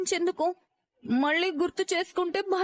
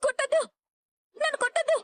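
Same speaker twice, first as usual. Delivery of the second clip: high frantic begging, don't hit me; terrified pleading in sleep; 8 semitones higher than usual. Acted. Wife screaming in a nightmare, begging not to be hit, high and frantic. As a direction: cry out from a nightmare, begging to be spared. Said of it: "ఎందుకలా అరిచావు".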